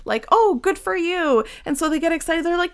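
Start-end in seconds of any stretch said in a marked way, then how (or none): 0.3-1.4 high, loud, slow gushing; mock cheer. The crowd congratulating Bartimaeus, high and loud. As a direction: fawn over him.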